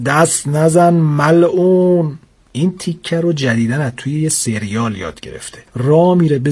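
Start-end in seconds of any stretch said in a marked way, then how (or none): 0.0-2.2 slow stretched mock command, stress on نزن; hammed-up stern order; father's shout. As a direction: drag out دست نزن like a TV detective. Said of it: "بابا داد زد".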